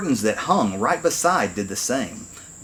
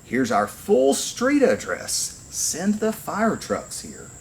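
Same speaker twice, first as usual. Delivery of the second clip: calm and clear; 6 semitones higher than usual. A narrator's reading. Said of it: "calm and clear".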